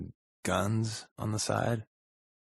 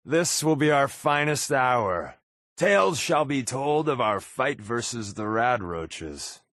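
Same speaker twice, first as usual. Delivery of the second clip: mock heroic; 3 semitones higher than usual.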